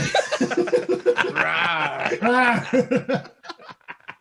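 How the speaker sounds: laughing imitation of a big cat's roar; hammed-up "raah" with laughter; mock panther roar. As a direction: roar like a panther, then crack up. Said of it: "What does my panther say?".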